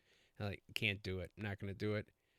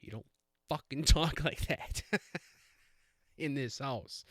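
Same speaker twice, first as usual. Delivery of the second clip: mock stern dad; 3 semitones higher, 5 dB louder than usual. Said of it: "I didn't say that".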